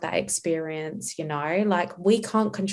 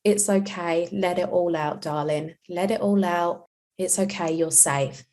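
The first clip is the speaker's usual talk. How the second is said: put-on calm soothing to child. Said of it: "be calm and tell them".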